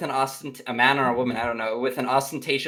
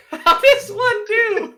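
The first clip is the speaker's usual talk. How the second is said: squeaky high mock-posh accent, slow and loud; laughing, exaggerated posh imitation; mimicking posh; 5 dB louder, slower than usual. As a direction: parrot the posh line in falsetto. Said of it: "That's posh".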